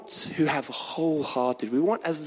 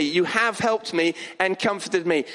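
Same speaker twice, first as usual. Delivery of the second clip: "have" firmly emphasised; stress on "have". Acted. Preacher giving his testimony to God, stress on "have". Repeats the changed tense as testimony.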